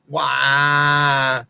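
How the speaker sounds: sneering crybaby "wah"; mock crying wah. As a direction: fake baby wail. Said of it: "whine, belly, and cry".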